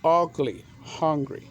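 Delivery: "Ugly, hungry" in two clear beats each; measured, separated syllables on "Ugly, hungry"; syllable demonstration. Shown as a demonstration. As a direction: sound out "Ug-ly", then "hun-gry". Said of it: "have two syllables".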